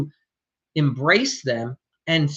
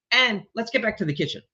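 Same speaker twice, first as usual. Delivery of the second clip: let's get back to the kitchen, said brisk and upbeat, a bit higher; cheerfully steer them back with and let's get back to the kitchen; enthusiastic redirect; 4 semitones higher, faster than usual. Shown as a demonstration. Contractor redirecting the chatty homeowner, upbeat. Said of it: "you get enthusiastic".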